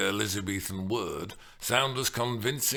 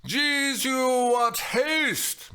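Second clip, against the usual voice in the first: loud, higher, exasperated shout; annoyed exclamation; 6 dB louder, much slower than usual. Acted. The nurse snapping at impatient Juliet, loud. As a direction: scold the hasty girl. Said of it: "exclaimed in some annoyance".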